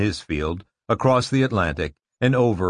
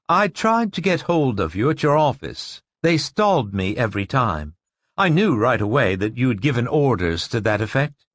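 intense woman voice; 3 semitones higher than usual. Acted. Narrator voices Rachel.

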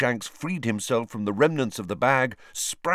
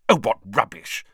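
impatient; 5 dB louder than usual. Acted. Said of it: "said Hermione impatiently".

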